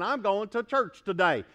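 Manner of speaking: lightly put-on Southern churchgoer; southern accent. Churchgoer announcing they're off to church, southern accent. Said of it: "I don't know why the southern accent comes out".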